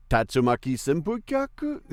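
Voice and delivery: high, strained fighter move shout; Street Fighter move call. Shown as a demonstration. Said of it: "I could never say".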